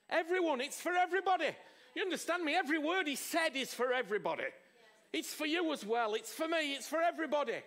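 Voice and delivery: fervent preaching; rising fervour. Real, not acted. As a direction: press the point to the crowd. Preacher drives point home.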